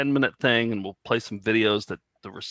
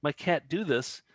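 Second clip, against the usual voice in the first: excited; 6 semitones higher than usual. Retold or imitated. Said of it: "I'm like".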